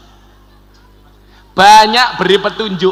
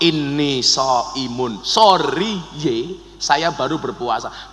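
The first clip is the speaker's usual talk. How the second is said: restrained fasting reply; 5 semitones lower, 5 dB quieter, slower than usual. Acted. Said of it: "disuruh jawab".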